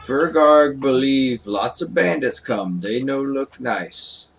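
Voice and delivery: lightly voiced simple fighter; Fergarg the broken-speech character. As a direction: give a hint of a simple brute warning of trouble. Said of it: "Fergarg's gonna be like".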